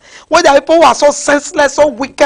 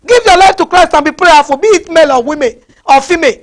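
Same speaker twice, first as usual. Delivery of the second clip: raised, higher preaching voice; urgent exhortation; 4 semitones higher, 4 dB louder than usual. Real, not acted. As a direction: urge them forcefully, voice lifted. Urgent exhortation in angry rant.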